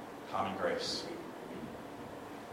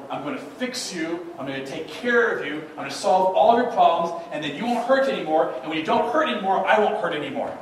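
eager fixer; 4 semitones higher, 5 dB louder than usual. Retold or imitated. Mock helper promising fixes.

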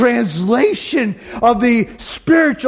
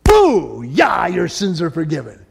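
joyful announcement; 2 semitones lower, slower than usual. Retold or imitated. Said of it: "Jesus jumped right to the greatest miracle".

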